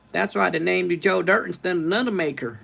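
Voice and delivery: high-pitched movie-character imitation; Joe Dirt. Streamer quotes a comedy film to viewers, high imitated voice. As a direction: push the pitch well up in character. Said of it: "I can do Joe Dirt".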